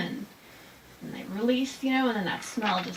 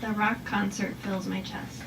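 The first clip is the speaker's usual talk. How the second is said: poem reading. Shown as a demonstration. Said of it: "Thunder Moon (repeat)".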